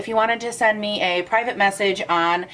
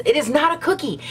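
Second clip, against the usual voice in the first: mock outrage; 5 semitones higher than usual. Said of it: "that was really dramatic".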